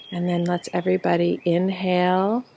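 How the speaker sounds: guided breathing. Real, not acted. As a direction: lead them gently through each breath, drawing out the words. Leads breathing exercise.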